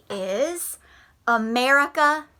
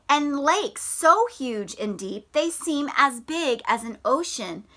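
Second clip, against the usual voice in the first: story reading. Acted. Reads picture book aloud.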